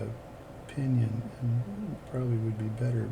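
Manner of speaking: hushed, measured golf commentary; lightly voiced golf announcer. Real, not acted. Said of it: "I'm talking like I'm a golf announcer".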